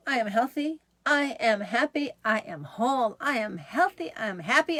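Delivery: rhythmic, upbeat affirmations; daily mantra. Shown as a demonstration. Host leading viewers in a daily mantra, upbeat affirmation. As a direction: lead a lively mantra for viewers to repeat. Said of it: "So, daily mantra".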